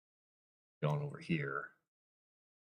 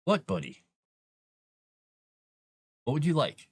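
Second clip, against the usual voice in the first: cat talk; 7 semitones higher than usual. Real, not acted. Cat calling for attention.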